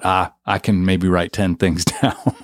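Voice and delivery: quoting him through a laugh; laughing retelling. Retold or imitated. Host laughing as he quotes Sergio's small goal. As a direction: chuckle through the modest guess. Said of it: "You thought".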